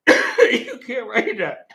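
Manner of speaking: slow, laughing through the words; can't believe they wrote that. Real, not acted. Reading a script, laughing in slow disbelief.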